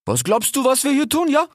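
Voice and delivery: high, slangy indignant cheetah; cheetah Ilias. A narrator's reading. Cheetah snaps at the fox's suggestion, high and slangy. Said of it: "rief Ilias".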